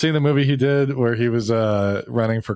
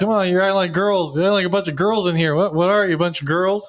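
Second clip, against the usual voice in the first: coach yelling; 5 semitones higher than usual. Retold or imitated. Robert Downey's acting coach scolding the actors, mock yell. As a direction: bark it like a gym coach riling up players. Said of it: "he's doing his acting".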